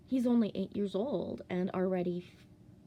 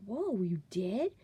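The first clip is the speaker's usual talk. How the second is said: amazed whoa; 4 dB louder, slower than usual. Retold or imitated. Mock amazement at son's rainbow.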